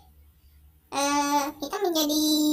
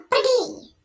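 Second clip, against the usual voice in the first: much higher, loud screamed order; furious yell; 10 semitones higher, 6 dB louder than usual. Acted. Husband screaming at his wife to get out, furious high yell. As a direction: scream her out of the room.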